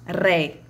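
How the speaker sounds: "Ré" on its own, firmly sounded; isolated syllable. Shown as a demonstration. Teacher counting off the third syllable, deliberately isolated. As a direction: set "Ré" apart as a separate syllable. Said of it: "terceira sílaba".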